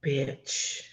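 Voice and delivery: voiceless, hushed exclamation; stunned whisper. Real, not acted. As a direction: whisper it in disbelief. Stunned reaction to the plot.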